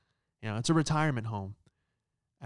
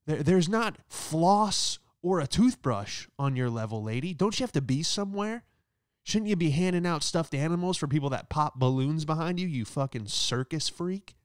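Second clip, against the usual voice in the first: mock comeback; 5 semitones higher than usual. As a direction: fire back at her in your head. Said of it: "I go".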